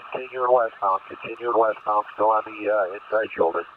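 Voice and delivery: urgent call over a police radio. Real, not acted. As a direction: shout it through a squad car radio. Pursuing unit calls over radio.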